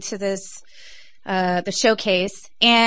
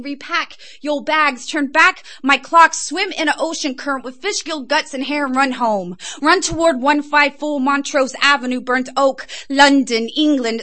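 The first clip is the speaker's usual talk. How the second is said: Big Ben yelling; 5 semitones higher than usual. Acted. Big Ben yelling at the family to come home, half-hearted mock yell. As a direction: call them home like a tolling clock tower.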